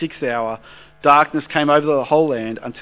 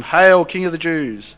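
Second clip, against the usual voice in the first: loud, slow, higher mock salute; mocking call; 4 semitones higher, 6 dB louder than usual. A narrator's reading. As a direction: jeer it out like soldiers hailing a fake king. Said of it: "began to call out to him".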